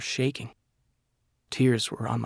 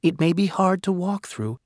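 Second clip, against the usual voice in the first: slightly raised, tender letter reading; mother's letter voice; 3 semitones higher than usual. Acted. Nathan reading his late mother's letter, tender and lightly higher. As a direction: read it as a loving mother.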